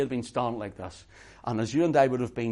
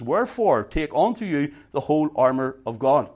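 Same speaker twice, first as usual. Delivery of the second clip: loud, ringing scripture reading; preaching scripture; 4 dB louder than usual. Acted. Preacher reading Ephesians to the congregation, loud and ringing. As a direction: proclaim it to the whole congregation. Reads scripture at full force.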